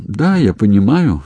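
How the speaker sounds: ordinary delivery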